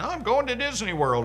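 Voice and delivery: high-pitched imitation of a celebrating champion; mock elated winner. Voicing the expected winner's joyful reply.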